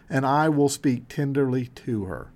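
a quiet, tender God speaking; spoken tenderly. Acted. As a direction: say it tenderly, like a promise. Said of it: "that's when God speaks tenderly".

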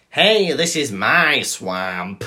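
slow Scottish ogre line; mock Scottish accent. Quoting Shrek to co-host, mock Scottish accent. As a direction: stretch it out in a put-on Scottish accent. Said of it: "He thought it was funny in Scottish".

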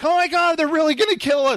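high, fast, hammed-up alarm; mock kid panic. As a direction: play the frightened kids for laughs. Kids panicking in escape room.

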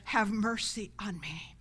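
crying out. Shown as a demonstration. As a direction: call on the Lord for mercy. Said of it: "cry out saying".

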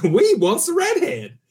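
slow, growly pirate chant; pirate ride voice. Acted. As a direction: drag it out like a ride animatronic. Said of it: "What really cracks him up is when I'm like".

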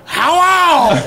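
cheery hello. Retold or imitated. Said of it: "I just go".

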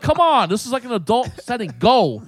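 high, emphatic mock exasperation; retold impatient outburst; exasperated order, retold. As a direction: imitate a fed-up man sending her away. Retold quarrel, man orders her out.

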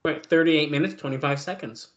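talking with a mouthful of dinner; mouth full. Real, not acted. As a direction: say it round a bite of food. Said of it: "talk with his mouth full".

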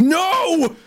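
mock penis cry. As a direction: yelp it like a panicking tiny voice. Penis voice protests.

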